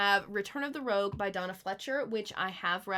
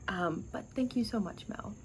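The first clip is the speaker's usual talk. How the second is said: tender whisper; 4 dB quieter than usual. Real, not acted. Thanking her friend tenderly.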